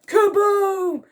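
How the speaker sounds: high, loud drawn-out kaboom; explosive boom. A narrator's reading. Reader sounding the exploding barrel, explosive. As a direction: burst it out like an explosion.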